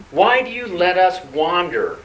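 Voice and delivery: mildly indignant mock challenge to God; fist-shaking complaint. Preacher voices the people shaking their fist at God, mildly indignant. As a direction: accuse in protest, lightly acted. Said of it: "They're shaking their fist at".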